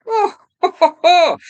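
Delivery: high gleeful chuckle; delighted laugh. Real, not acted. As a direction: laugh with glee at the toy. Delighted at moving part.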